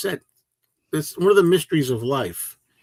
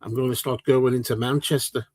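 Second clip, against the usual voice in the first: British accent. Shown as a demonstration. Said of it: "if I start talking like this".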